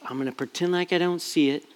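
quiet thought. Retold or imitated. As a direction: say it to yourself, hushed and fast. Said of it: "I'm just like".

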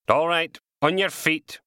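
high, loud command; firm order. Acted. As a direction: order him up, looming over him. Constable ordering the man up.

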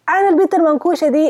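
high, rapid mock astonishment; imitated shocked onlooker. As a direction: blurt it out like a startled passerby. Strangers' wide-eyed comments imitated.

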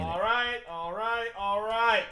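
high, drawn-out McConaughey catchphrase; McConaughey drawl. Retold or imitated. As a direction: stretch each all right like McConaughey. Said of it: "the catchphrase ... with Matthew McConaughey".

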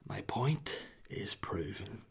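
slow smug whisper. Retold or imitated. Whispering triumph to his wife, slow. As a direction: savour the victory under the breath.

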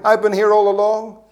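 the elder brother bursting out at his father, indignant; indignant outburst. Retold or imitated. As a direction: throw it back at the father, wounded.

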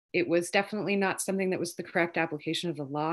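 real rushed, quick delivery; talking fast. Real, not acted. Activist explaining the tax problem to interviewer, talking fast. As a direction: rush through it at a brisk clip. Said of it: "I know I should slow down".

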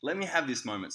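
loud, high inner panic; cursing the universe out loud. Retold or imitated. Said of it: "in my head".

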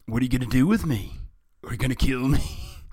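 high, loud, anxious hero voice; hammed-up alarmed question; frightened captive. A narrator's reading. Captive turtle questions villain.

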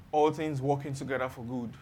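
lightly voiced consoler quoting scripture, low and soft; mock comforter. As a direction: recite it as pat comfort, low and subdued. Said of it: "They quote a Romans eight twenty-eight".

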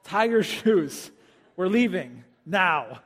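slow, firm, deliberate; patient but firm father; stern dad. Retold or imitated. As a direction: spell it out slowly to a stalling child. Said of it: "I'm like".

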